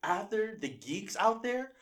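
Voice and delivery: loud, slow, high wrestling promo. Acted. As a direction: bellow it like a wrestler cutting a promo. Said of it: "cutting a wrestling promo on me".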